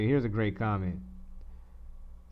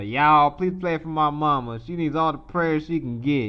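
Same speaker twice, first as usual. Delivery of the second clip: louder, Southern church-lady plea; southern accent; 3 semitones higher, 4 dB louder than usual. Retold or imitated. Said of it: "she's from the South".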